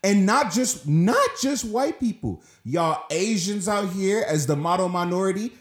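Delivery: heated, high-pitched correction; real upset. Real, not acted. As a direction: widen the accusation, fired up. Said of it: "I'm getting so upset".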